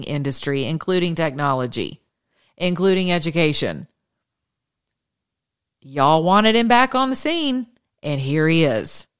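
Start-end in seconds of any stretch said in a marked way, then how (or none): 5.8-9.1 dead serious. Real, not acted. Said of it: "I could not be more serious about it".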